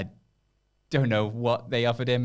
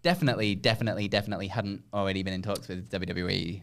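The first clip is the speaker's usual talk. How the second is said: heavy sarcasm. Acted. Sarcastic denial of contract tampering.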